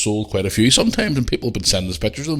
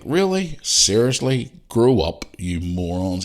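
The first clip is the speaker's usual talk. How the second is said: exasperated retort; 3 semitones higher, slower than usual. Retold or imitated. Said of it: "it was just like".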